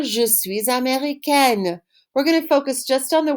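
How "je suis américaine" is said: slow model answer. Shown as a demonstration.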